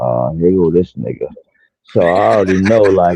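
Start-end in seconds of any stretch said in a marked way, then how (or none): 0.0-1.3 low, quiet, under-the-breath muttered aside. Retelling what a man said on a panel: imitating someone saying it real low. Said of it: "he said it real low".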